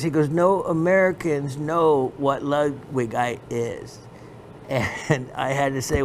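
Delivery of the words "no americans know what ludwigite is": dealer's pronouncement in a mimicked Pakistani accent; lightly put-on Pakistani accent; imitated Pakistani accent. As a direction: imitate the Pakistani dealer stating a blunt fact. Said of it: "he just said it like this".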